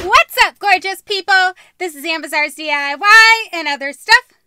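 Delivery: loud, high, bubbly channel greeting; energetic YouTuber intro; vlog intro. Shown as a demonstration. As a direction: hype up the viewers. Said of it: "I do this every time".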